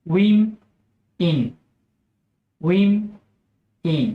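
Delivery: উইম then ইন, split and repeated; syllable by syllable. Shown as a demonstration. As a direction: spell out উইম ইন slowly. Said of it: "plural ফর্মের উচ্চারণ হচ্ছে".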